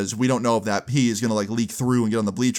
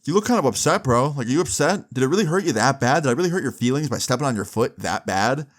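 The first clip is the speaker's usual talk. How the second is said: taunting; 2 semitones higher, faster than usual. Retold or imitated. Zach tries to make Jeff angrier, taunting him. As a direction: needle him with fake concern. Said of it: "try and get him even angrier".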